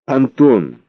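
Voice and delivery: high, slow pleading cry; exclaiming. Acted. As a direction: exclaim it, begging him to act. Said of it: "воскликнула Светлана".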